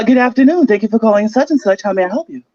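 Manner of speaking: telemarketing voice. Pretend. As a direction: pretend telemarketer answering a call. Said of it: "give me some telemarketing voice".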